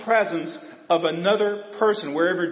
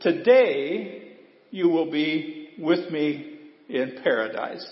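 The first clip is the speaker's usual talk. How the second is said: very slow, drawn-out scripture reading; a quoted promise, read slow and solemn; slow solemn quote; slower than usual. Retold or imitated. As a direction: let each word of the promise land slowly. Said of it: "did you hear what Jesus said to him".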